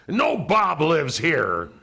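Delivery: a very high, loud, slow mock outrage; hammed-up indignant correction, stretched out; outraged. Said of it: "he got outraged".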